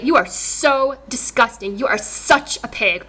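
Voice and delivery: slow, deliberate angry put-down; angry insult. Real, not acted. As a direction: spell out each word in disgust, slowly. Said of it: "but I'm just so angry".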